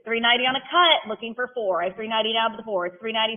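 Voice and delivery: rhythmic auctioneer chant, numbers rolled out; auction bid calling. Acted. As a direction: call the bids like an auctioneer.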